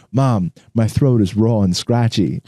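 put-on slow whiny kid voice; copying kid complaint. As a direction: drag it out like a kid. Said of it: "Alex is sitting there going".

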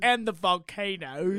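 slow imitation, drawn out; Forrest Gump. Teasing a friend for that delivery, slow Forrest Gump imitation. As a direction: lightly mimic the movie character, stretching the words. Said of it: "very, like, Forrest Gump slash".

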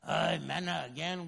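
bored, whining Israelites moaning about manna; whiny complaint. Retold or imitated. Israelites grumbling about manna, whiny and bored. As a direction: sulk over the same food. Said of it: "started complaining".

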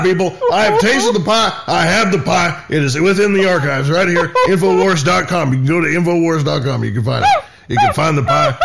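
conspiracy rant. Acted. Alex Jones style rant.

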